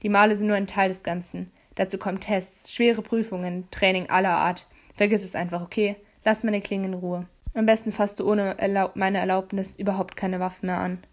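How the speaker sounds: hint of a firm, lecturing young man; leicht gespielter Jace. Jace voiced in dialogue. (leicht angedeutete tiefere Jungenstimme)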